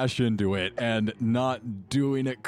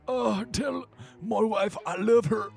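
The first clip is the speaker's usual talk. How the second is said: high, pained dying guard voice; wounded soldier gasping; 10 semitones higher than usual. Acted. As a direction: cry it out like a crushed guard. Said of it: "hear the cries of this Duergar".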